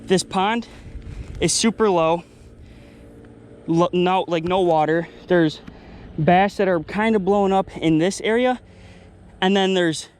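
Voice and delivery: panting after the fight; out of breath. Real, not acted. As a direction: talk while catching your breath. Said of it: "I'm kind of out of breath".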